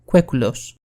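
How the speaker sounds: κουέκουλος as "kwekwlos"; Proto-Indo-European word. Shown as a demonstration. Narrator giving the root of the word, κουέκουλος as kwekwlos. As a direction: pronounce κουέκουλος with kw sounds, carefully. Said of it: "προέρχεται από την πρωτοϊνδοευρωπαϊκή λέξη".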